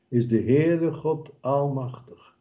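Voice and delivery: ordinary delivery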